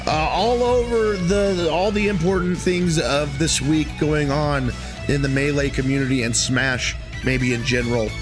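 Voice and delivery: high, hyped bro intro; pumped-up party bro greeting; frat bro. Acted. Hyped podcast intro, bro energy.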